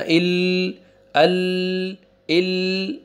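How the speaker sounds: इल and अल voiced oddly, the wrong way to read them; wrong reading demo. Shown as a demonstration. Teacher voicing the mistake students should avoid, done wrong on purpose. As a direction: show the class how not to read इल. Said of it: "ऐसे भी नहीं पढ़ना".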